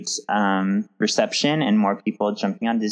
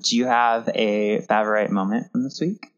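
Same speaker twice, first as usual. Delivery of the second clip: whispering. Real, not acted. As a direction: whisper the question. Whispered question after phone ding.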